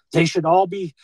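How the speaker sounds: lightly hammed-up indignant pronouncement; mock outrage. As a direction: mimic a politician making a righteous demand. Quotes a congressman's hostile demand.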